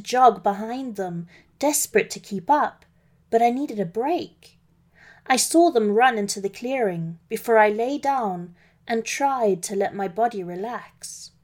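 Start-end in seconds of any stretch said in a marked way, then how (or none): none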